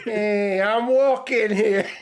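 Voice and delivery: loud, high hammed-up New York accent; American accent. Host joining the co-host's bit, loud mock American accent. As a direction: holler it like a mock American pedestrian. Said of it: "his weird American accent".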